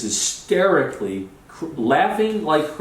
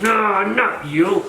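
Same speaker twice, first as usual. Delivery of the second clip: high, long drawn-out call; mock searching call; 8 semitones higher, much slower than usual. Charlie passes over men while hunting, mock searching call. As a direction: imitate him stretching each word up high.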